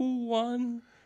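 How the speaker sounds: put-on very high-pitched elderly woman voice. Imitating an eighty-seven-year-old mother on the couch: elderly lady's voice. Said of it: "my mother ... eighty-seven years old, sitting on the couch going".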